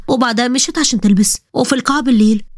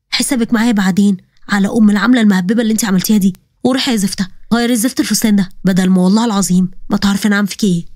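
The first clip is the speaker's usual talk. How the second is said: lowered threatening mother voice; a mother hissing threats; stern mother; 3 semitones lower than usual. Acted. (أم غاضبة تهدد)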